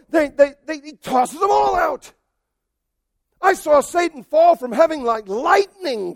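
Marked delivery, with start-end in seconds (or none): 3.4-6.1 proclaiming Jesus. Acted. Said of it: "Jesus said".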